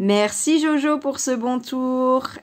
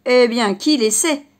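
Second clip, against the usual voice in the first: louder exclamation; exclaiming; 7 dB louder than usual. Acted. The horse exclaims to the rabbit, a touch louder. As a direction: burst out with it. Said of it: "s'exclama le cheval".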